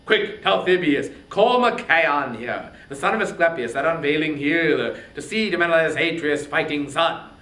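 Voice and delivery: loud, pressing orders; a king shouting for a healer for his wounded brother; urgent command. Acted. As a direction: call the herald to fetch the healer now. Agamemnon orders the herald urgently.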